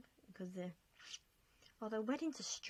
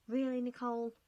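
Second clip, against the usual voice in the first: self-scolding; 4 semitones higher, 7 dB louder than usual. Real, not acted. Scolding herself for forgetting.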